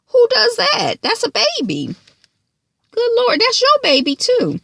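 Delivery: very high, loud, incredulous cry; outraged disbelief. Real, not acted. Vlogger appalled at Ash's treatment of a baby.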